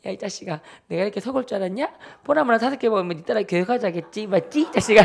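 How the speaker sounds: mock accusing sister, amused underneath; sudden turnabout. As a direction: switch to calling out a brother's scheme. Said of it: "갑자기 돌변하면서".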